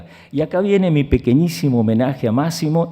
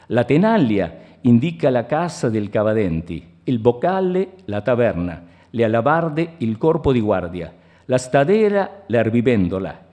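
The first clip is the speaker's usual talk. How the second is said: measured, declaimed Italian prose; literary reading in Italian. Acted. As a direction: read the Italian passage aloud with deliberate phrasing. Reads Italian literary passage aloud.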